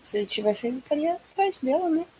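soft, hollow spectral voice; ghost voice. Acted. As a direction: speak like a voice from beyond. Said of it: "voz do além".

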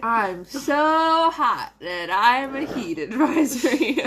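slow, laughing through it. Real, not acted. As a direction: giggle through the joke. Joking about the heat.

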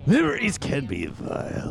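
Joker voice. Acted. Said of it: "I'm the Joker".

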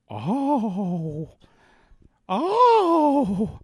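put-on a sitcom housemother crying out to the girls; Mrs. Garrett impression. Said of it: "I just went".

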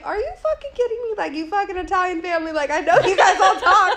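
high, rising comic rant; exasperated. Retold or imitated. Retold outburst at the gossiping family.

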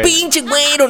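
high, hammed-up Mexican accent; mock Mexican accent. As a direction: toss it off like a Mexican buddy, Mexican accent. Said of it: "hablar el acento ese mexicano".

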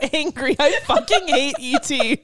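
laughing fury, slow and emphatic; heated laughing rant. Real, not acted. Cohost ranting at the alien movie, laughing fury. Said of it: "Oh my God, you're so heated".

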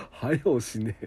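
はよしねえ said plainly in Okayama dialect; an easy, level はよしねえ. Shown as a demonstration. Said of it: "って".

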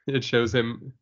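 ordinary delivery

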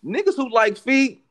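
big, high hype call-out; booming announcement. Acted. Podcast shoutout announcement.

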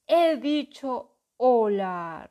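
very slow loud dragon repeat. A narrator's reading. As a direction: drag it out, menacing. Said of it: "repitió el dragón".

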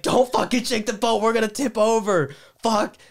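high, urgent acted panic; retold panicked yelling. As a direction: re-enact yelling at her before the boat tips. Retold panic as she screams.

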